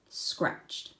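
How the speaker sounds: whispered, lazy scratched; sleepy whisper. A narrator's reading. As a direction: murmur it half asleep. Wombat diary entry.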